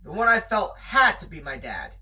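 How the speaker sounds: steady read-aloud storytelling voice; story narration. A narrator's reading. Narrator reading a chapter to a friend, storytelling voice. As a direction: tell the tale to your listener.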